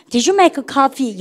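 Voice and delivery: very slow, every word spelled out for the class; teacher reads slowly so students repeat; slow model sentence. Shown as a demonstration. Teacher leads students in slow choral repeat. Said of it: "해보세요".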